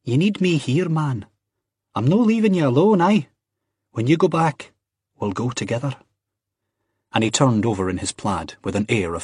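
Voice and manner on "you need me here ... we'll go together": high, emphatic insistence; protesting. A narrator's reading. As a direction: refuse to be sent off, pitched up. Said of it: "Ian protested".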